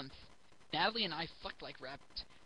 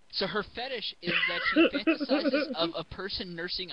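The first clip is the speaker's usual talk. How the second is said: giggling; 9 dB louder than usual. Real, not acted. Laugh heard mid-reading.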